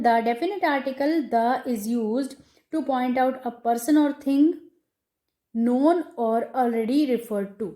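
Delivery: slow, deliberate dictation pace; dictating a rule. Shown as a demonstration. Teacher dictating a grammar rule to students, slow and measured. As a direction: read it out word by word so students can write.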